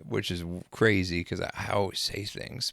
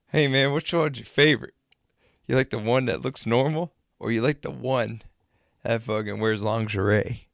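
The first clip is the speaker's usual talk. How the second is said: retold heckle, raised and needling; mocking taunt; 3 semitones higher, 5 dB louder than usual. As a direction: tease him loudly with leading questions. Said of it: "I was just making it hell for him".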